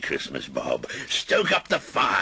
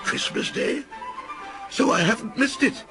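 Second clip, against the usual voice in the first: crowing. Acted. Scrooge crows to the boy in delight. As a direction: crow with joy. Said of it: "crowed Scrooge".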